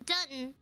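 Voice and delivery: "Dutton" for downtown, middle of the word swallowed; regional contraction. Shown as a demonstration. Guest quoting a Philadelphia vocal coach, "Dutton" run together. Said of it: "they called downtown Dutton".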